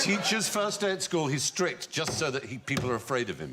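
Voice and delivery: put-on lilting Welsh accent, playful; mock-stern Welsh accent. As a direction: put on a sing-song Welsh voice. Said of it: "Mocking my Welsh accent".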